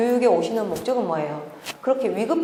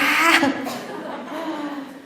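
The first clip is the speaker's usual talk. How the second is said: high bright burst of laughter; real laugh; 7 semitones higher than usual. Real, not acted. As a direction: laugh at the irony of it. Laughs at own story. (높고 밝게 터지는 웃음)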